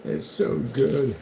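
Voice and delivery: drawn-out fake sob of joy; mock tearful, slow. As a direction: stretch it out like you're about to cry. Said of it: "I might even cry on camera".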